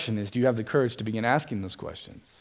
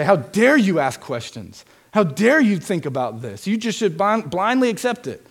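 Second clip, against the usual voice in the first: indignant rebuke, rising higher and louder; mock scolding; 5 semitones higher, 4 dB louder than usual. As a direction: scold her like a harsh preacher. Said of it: "He doesn't scold her".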